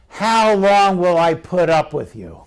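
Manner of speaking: mildly exasperated question; a touch of exasperation; frustrated. Acted. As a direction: lean on it with fed-up patience. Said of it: "Here's the frustration".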